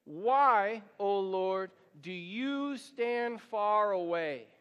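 drawn out, read together slowly; slow congregational reading. Shown as a demonstration. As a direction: lead the room through it word by word. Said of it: "would you read that out loud with me".

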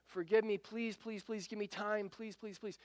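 a hushed, mild mock plea; pleading. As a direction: plead quietly like a desperate debtor. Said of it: "starts pleading and begging for mercy".

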